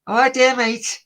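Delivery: high-pitched Scouse lad; cheeky Scouse street-kid impression; Scouse accent. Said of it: "I'm doing a Scouse accent now".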